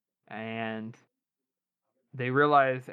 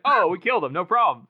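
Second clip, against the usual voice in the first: higher, louder cheerful mock report; happy, carefree; 3 semitones higher, 6 dB louder than usual. Casca reporting a killing to Glocta, happy and breezy. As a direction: toss it off brightly, pleased as can be. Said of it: "He's all happy about it".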